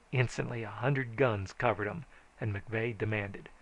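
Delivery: ordinary delivery, nothing marked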